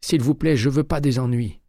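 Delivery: high, choked pleading voice; frightened clerk. A narrator's reading. Terrified clerk under McCaleb's arm, high and pleading. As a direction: beg to be let go.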